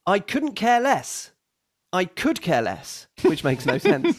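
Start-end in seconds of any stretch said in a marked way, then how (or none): 1.9-3.1 American idiom. Shown as a demonstration. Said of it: "the second version is American".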